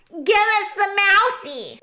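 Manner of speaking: high, loud rat demand; shrill hungry rat; shouting. A narrator's reading. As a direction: clamour loudly for your prey. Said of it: "shouted one of the rats".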